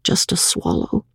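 low whispery plea; hushed bedside coaxing; soft coaxing. A narrator's reading. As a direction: urge gently, almost in a whisper. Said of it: "he coaxed softly".

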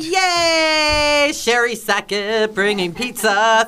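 delighted squeal; thrilled, high and bright; excited. Real, not acted. Delighted by surprise pizza delivery.

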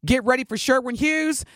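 upbeat radio host promo read; radio contest promo. Acted. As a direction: sell it like a DJ.

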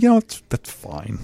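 excited. Real, not acted. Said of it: "Wow, you sound excited".

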